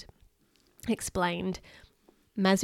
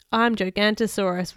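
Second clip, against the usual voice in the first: roaring; 4 dB louder than usual. Acted. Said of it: "roared Bill".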